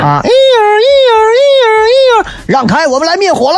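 high shouted marching count; barked drill commands. Pretend. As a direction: bark the count like a squad leader. Firefighters clearing the way.

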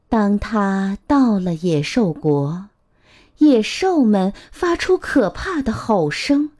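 put-on measured, expressive storytelling to a child; picture-book narration. A narrator's reading. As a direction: read a picture book aloud to little ones.

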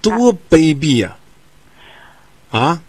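slow, drawn-out indignant remark; disgusted aside. Real, not acted. Radio host breaks in on the caller's story with slow disgust. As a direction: spell out the contempt word by word. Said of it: "话外音".

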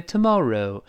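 British "tomorrow", final o split eh-oo; British pronunciation. Shown as a demonstration. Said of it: "这英式发音的不好读".

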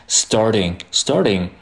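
"starting" with a light tongue-tap for t; flap T. Shown as a demonstration. Teacher demonstrating the tongue tap, flap T. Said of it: "它是一个舌尖跳动的声音".

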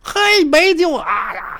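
a hint of a high sing-song exclaim, slow; mock neighbor. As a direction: lightly ham up the neighbors' fake surprise. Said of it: "他们说". (略带夸张的邻居腔)

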